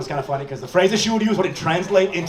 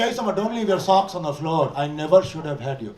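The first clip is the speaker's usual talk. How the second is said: softer, flat mom scolding, dropping low; cold mom; 4 semitones lower, 4 dB quieter than usual. Retold or imitated. Mom scolding Summer over socks, quiet and cold. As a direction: say it calmly cold like a tired mother. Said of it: "She was like".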